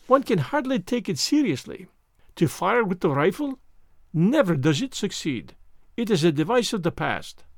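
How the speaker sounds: fussy Belgian detective voice; lightly French-accented precise gentleman; Hercule Poirot. Acted. Poirot speaks.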